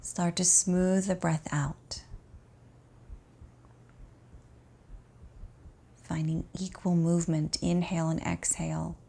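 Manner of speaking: calm, unhurried meditation voice with long pauses; guided relaxation. Acted. Teacher guiding an exhausted student to notice the breath, calm guided relaxation. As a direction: ease the listener gently into rest.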